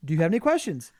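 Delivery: high, bright mock family chat; acted dinner dialogue. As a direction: play both sides of a cheerful dinner talk. Acted relatives and vegan at dinner.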